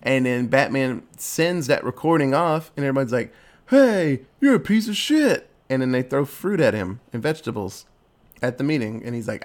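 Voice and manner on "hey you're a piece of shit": higher, louder jeer from the crowd; hammed-up heckling at the villain; mock angry crowd. Crowd jeering Penguin.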